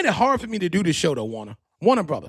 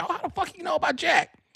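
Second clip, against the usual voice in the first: mock surprise; 11 semitones higher, 3 dB quieter than usual. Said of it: "You're like".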